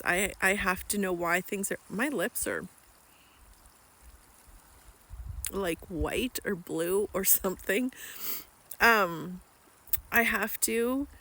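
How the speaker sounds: cold at a freezing lake; talking while chilled through; shivering cold. Real, not acted. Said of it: "I'm freezing".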